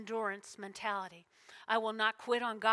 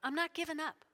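call and response; 5 semitones higher, 3 dB quieter, faster than usual. Shown as a demonstration. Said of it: "Everybody say".

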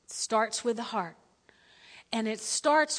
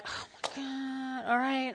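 dismayed; 8 dB quieter, slower than usual. Retold or imitated. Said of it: "we're like".

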